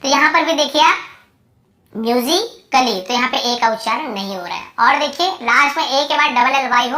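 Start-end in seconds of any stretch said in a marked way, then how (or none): 1.9-3.0 slow "म्यूजिकली", broken as myu-zi, klee; silent A. Shown as a demonstration. Teacher shows students the word, slow "म्यूजिकली" with A silent. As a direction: sound out "म्यूजिकली" slowly in parts. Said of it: "तो ये म्यूजिकली ऐसे बोलते हैं".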